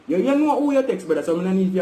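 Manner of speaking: high, loud heated protest; "You, you know who you text" snapped high; heated retort. Real, not acted. Accusing the friend of faking confusion, heated and high.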